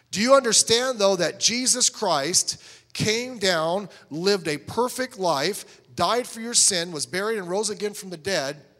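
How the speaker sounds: loud, high, slow gospel question; emphatic preaching. Shown as a demonstration. Soul winner asking a sinner about Christ, emphatic. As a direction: drive each phrase home loudly and deliberately.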